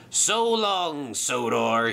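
gloating villain's drawn-out goodbye; laughing farewell. Acted. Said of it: "he laughed".

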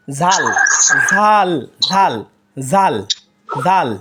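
ঝাল light and thin. Shown as a demonstration. Teacher repeating the thin ঝাল. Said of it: "পাতলা আওয়াজে আছে".

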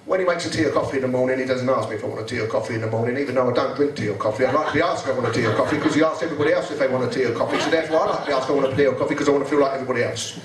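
low, fast petulant whine; whiny Andrew. Retold or imitated. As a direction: rattle off a petty grievance. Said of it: "He said".

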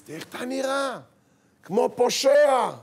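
furious high yell, stretched out loud; father's angry scolding. Acted. Father to son over torn jeans and haircut, angry shout. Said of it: "אז למה אתה מדבר אליו ככה".

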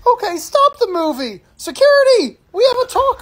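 very high-pitched alarmed call-out; calling security. Acted. Cinema usher reporting a talker to security, high urgent shout. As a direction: raise the alarm across the room.

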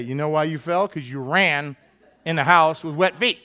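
dad explaining the fall without sympathy; blunt dad lecture. Retold or imitated. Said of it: "I'm gonna say".

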